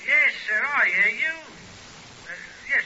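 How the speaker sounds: flustered. Acted. Sergeant flustered answering the superintendent on the telephone, loud. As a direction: hurry to placate the boss.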